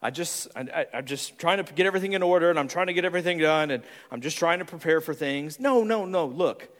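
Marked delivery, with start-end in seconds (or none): 0.0-5.6 hesitant red. Retold or imitated. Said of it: "The reds are like".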